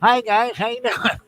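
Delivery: nasal voice from a pinched nose; holding nose. Shown as a demonstration. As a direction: talk with your nose held shut. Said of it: "hold my nose and talk like this".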